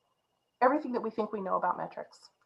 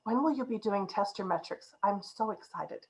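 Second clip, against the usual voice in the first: sheepish; 6 dB quieter than usual. Retold or imitated. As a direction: shrink into the words, mock-shy. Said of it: "a tester very sheepishly said".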